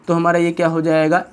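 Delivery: normal talking voice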